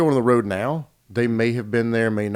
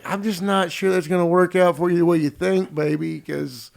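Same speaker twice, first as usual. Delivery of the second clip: higher, gingerly let-down; tactful parent treading lightly, pitched up; careful tactful explaining; 6 semitones higher than usual. Acted. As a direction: pick your words as a careful parent. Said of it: "So how do I explain this?".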